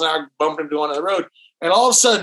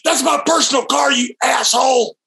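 higher, yelled insult; mock angry shout; 5 semitones higher than usual. Tom yelling at the driver over his personal car, mock angry. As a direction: bark it at the friend in the car. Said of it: "And Tom goes".

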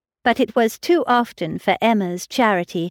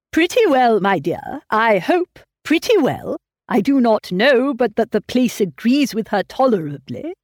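put-on higher, louder fussy old man; fretful old father; 4 semitones higher, 3 dB louder than usual. A narrator's reading. Old father answering his daughter, fussy and higher. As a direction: voice a worrying old gentleman.

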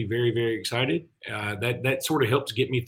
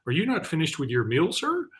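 higher, politely questioning, lifting sharply on "sir"; imitated restaurant lady; 5 semitones higher than usual. Lady checking on a diner's meal, lightly imitated server. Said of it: "she came up to me and said".

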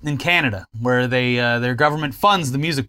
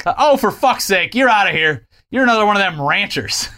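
fed-up moderator kicking someone out; exasperated; 4 semitones higher, 3 dB louder than usual. Retold or imitated. Angry moderator kicking out rancher.

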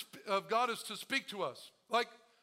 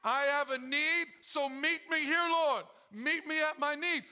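mock pleading; 4 semitones higher, 4 dB louder, slower than usual. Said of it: "beg and plead".

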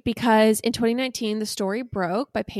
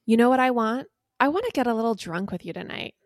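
dramatic restatement. Acted. Host restates the love text for audience, dramatic reading. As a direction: perform the text once more for listeners. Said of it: "I'm gonna restate for the audience".

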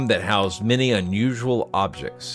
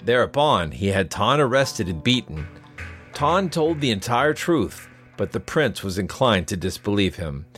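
measured storyteller's read over music; story narration; 3 dB louder than usual. A narrator's reading.

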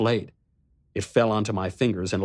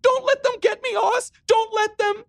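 very high, louder, frantic pleading; high crazy note; 4 dB louder than usual. Acted. Riley begging her brother for help, frantic and high. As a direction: beg in terror, voice cracking high. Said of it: "Her voice rose to a high, crazy note".

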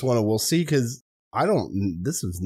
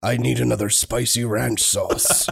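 Liam Neeson voice; 4 semitones lower, slower than usual. Retold or imitated. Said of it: "Liam Neeson's gravelly voice".

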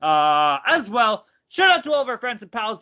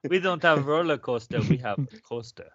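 put-on Russian accent; 3 semitones lower than usual. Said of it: "And then the Russian's like".

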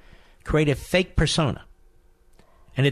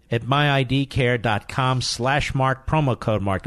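slow, spelled-out web address; slow ad read. Shown as a demonstration. Host to listeners reading the sponsor address slowly. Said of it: "let's do that again".

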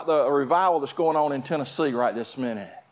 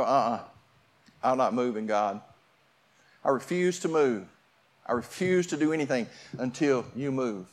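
stubborn plea; 4 semitones lower than usual. Acted. Acted stubborn plea to God.

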